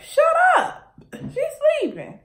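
high sharp hushing; snapping sister. Retold or imitated. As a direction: shush her, high and sharp. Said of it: "Cara like".

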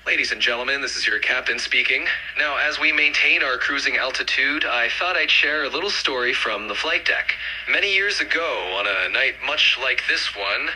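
captain over the cabin intercom; intercom pilot. Shown as a demonstration. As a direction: announce it over the PA. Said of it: "sound like a, like an airline pilot, like, uh, as if you were talking through the intercom".

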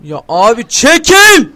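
angry shout. Real, not acted. Gamer yelling at a character blocking him, angry shout. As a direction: shove them aside with the voice.

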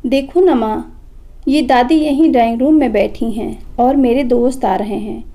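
put-on a touch of a whiny child's complaint; lightly voiced kid tattling to mom; complaining. Boy complaining to his mother about grandma, mildly whiny. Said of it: "शिकायत भरे लहजे में कहा".

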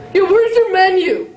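a hammed-up pushy customer; rude customer. Huge customer at Subway.

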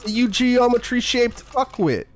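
exaggerated, terrible Cockney accent; amateur Cockney accent, indignant swearing; Cockney James Sunderland. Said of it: "more Cockney James Sunderland".

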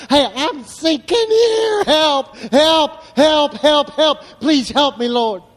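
high, loud pleading cry of someone going under; desperate cry for help. Pretend. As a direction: cry out for help like a drowning man. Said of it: "won't ever tell anybody".

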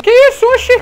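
high, loud shock; startled. Real, not acted. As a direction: jump at the sudden hit. Sudden shot in a firefight.

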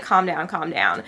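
low, easy reassurance; soothing calm down. Retold or imitated. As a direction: settle them gently. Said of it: "I'm like".

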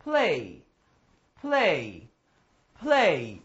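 one syllable play, repeated slowly; correct pronunciation. Shown as a demonstration. Teacher drilling the class, careful correct pronunciation. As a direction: play with p and l joined, no extra vowel. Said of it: "تمرین کن که بگی".

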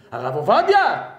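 high, loud incredulous outburst; acted scandalized shock. Aghast at shouting beside Rabbi Ovadia, scandalized squeal. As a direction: exclaim as if the very idea is shameful.

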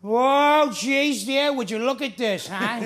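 lightly voiced gruff drunk dad gawking; a hint of a boozy Queens father, startled; mock drunk Archie gawking at the guests; Archie Bunker. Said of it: "drunk Archie Bunker".

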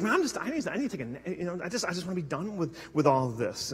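worn-out Job, barely there; weary and drained. Pretend. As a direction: give up, too tired to care. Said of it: "it's like".

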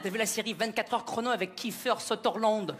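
mock French accent on Kiefer Sutherland; French-accented English. Quebecer mimics Rachid naming the series, mock French accent. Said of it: "vous n'avez pas le même accent que nous en Amérique".

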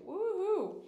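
high, loud woohoo; celebratory whoop; cheer. Real, not acted. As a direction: whoop it up for the member. Cheering a commenter.

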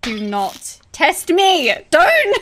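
frustrated yell. Real, not acted. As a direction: bellow at the escaping creature. Yelling at fleeing target.

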